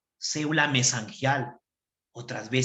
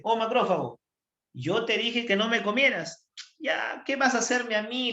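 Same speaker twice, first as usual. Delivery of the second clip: higher, lightly voiced lamenting soul; ghostly bacteria soul; 6 semitones higher than usual. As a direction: play the wronged ghost reproaching him. (alma en pena con voz más aguda y reprochadora)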